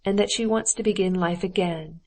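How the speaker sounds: understated anger in the voice; angrily. Acted. Husband tells Dolly of his wife's confession, mildly angry. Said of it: "he said angrily with a snort".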